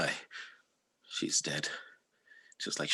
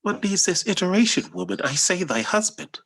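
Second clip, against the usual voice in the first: angry; 13 semitones higher, 3 dB louder than usual. Acted. Othello shouting at Emilia.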